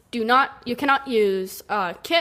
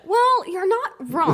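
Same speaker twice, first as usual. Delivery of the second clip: laughing; 8 semitones higher, slower than usual. Retold or imitated. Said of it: "And then I said".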